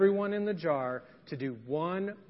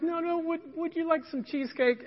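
insistent manager; 10 semitones higher than usual. Retold or imitated.

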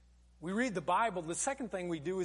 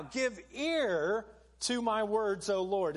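reading scripture; slower than usual. Acted. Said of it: "He says these words".

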